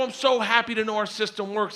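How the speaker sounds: high, giddy relief; acted gleeful amusement; laughing hysterically. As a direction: gush as if still cracking up. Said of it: "laughing hysterically".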